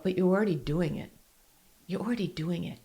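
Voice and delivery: soft, quiet self-comfort; gentle reassurance. Shown as a demonstration. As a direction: tell yourself kindly. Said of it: "I just remind myself".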